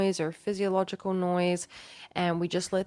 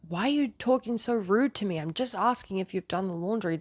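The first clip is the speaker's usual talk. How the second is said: matching his energy; 3 semitones higher than usual. Acted. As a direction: answer back in kind, affronted. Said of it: "instead of matching his energy".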